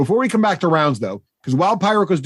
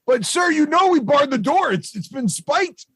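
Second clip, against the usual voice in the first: nervous goblin; 11 semitones higher than usual. Acted. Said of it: "He's like".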